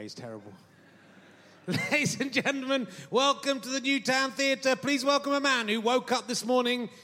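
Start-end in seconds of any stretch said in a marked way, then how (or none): 1.7-6.9 mock theatre announcer. Mocking the venue announcer, a light pompous announcer voice. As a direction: ham up the house announcer's welcome. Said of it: "I don't know why they keep on employing that guy".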